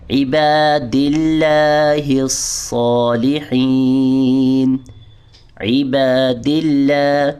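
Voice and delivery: عباد اللہ الصالحین chanted very slowly; slow recitation. Shown as a demonstration. Teacher reciting the phrase slowly for the class. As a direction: draw out every syllable like recitation. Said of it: "اس میں آپ نے احتیاط کرنی ہے".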